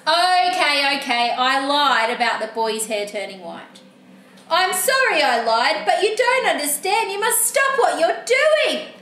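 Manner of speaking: lightly voiced character confessing, then insisting; exasperated book character. Book character owning up to the reader, mildly exasperated. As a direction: build to an urgent order, then a solemn vow.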